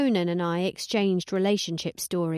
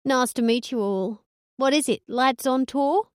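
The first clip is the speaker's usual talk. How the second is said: put-on higher, louder chirpy girly voice; Hillary twang; 5 semitones higher, 3 dB louder than usual. Narrator as Hillary to the lads, chirpy girly twang. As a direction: bubbly fake friendliness. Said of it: "Hillary twang".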